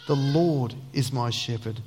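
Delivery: "Lord" held long, then a steady finish; stress on LORD. Shown as a demonstration. Preacher stressing there is only one real Lord, stress on "Lord". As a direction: lean on the word "Lord". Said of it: "Emphasize the different words".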